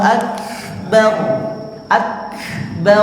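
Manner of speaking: Akbar ending in an audible exhale; Akbar with breath. Shown as a demonstration. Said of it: "Anginnya dihembuskan dulu".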